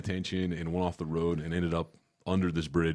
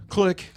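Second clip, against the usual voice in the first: higher, louder click noise; mock hang-up click; 13 semitones higher, 7 dB louder than usual. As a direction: pop out the click. Imitating hang-up sound.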